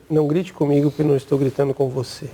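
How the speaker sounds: steady, even answer to a shouting boss; firm calm reply to a shouting boss; calm level tone. Shown as a demonstration. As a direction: keep the voice at normal level, firm and unhurried. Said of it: "Desse jeito aqui".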